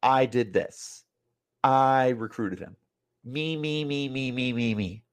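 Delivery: lightly voiced smug self-praise, slow and then soft; mock him with slow, trailing me, me, me; mocking Herm. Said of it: "You're saying".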